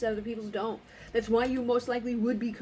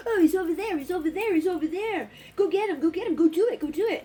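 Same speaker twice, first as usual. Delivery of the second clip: louder, higher urging yell, imitating the cameraman; egging on; 5 semitones higher, 4 dB louder than usual. Imitating the guy filming a shooting, yelling encouragement. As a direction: mimic the jerk urging the kid on. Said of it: "He's like".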